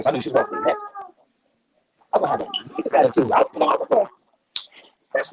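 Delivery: choppy breaking-up connection; words cutting in and out; robotic glitchy audio. Real, not acted. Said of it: "Bishop, you sound like a robot".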